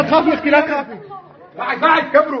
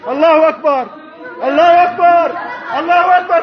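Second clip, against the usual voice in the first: jubilant shout. Real, not acted. Crowd at the freed prison, jubilant shouted takbir. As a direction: cry out in triumph.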